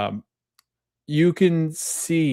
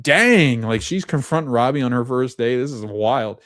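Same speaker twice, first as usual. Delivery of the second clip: amazed; 2 semitones higher, 4 dB louder than usual. Retold or imitated. Recapper recalling the hospital scene with a sudden, amazed burst. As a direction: react to the confrontation with a burst of awe. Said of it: "And I was like".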